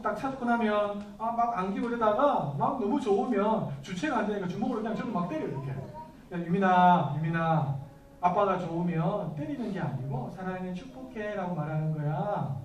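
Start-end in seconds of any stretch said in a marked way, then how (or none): 5.7-12.6 calm fatherly talk, a touch tender; gentle fatherly advice. Retold or imitated. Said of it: "이야기해줬어요".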